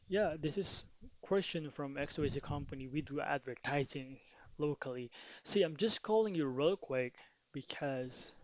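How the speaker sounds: bright, energetic cold-call greeting; upbeat phone opener. Shown as a demonstration. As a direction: sound lively and casual on the call. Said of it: "I changed my intonation, my diction right there".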